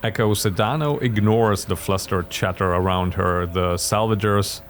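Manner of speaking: measured storyteller narration; story narration. A narrator's reading. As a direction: narrate the scene steadily.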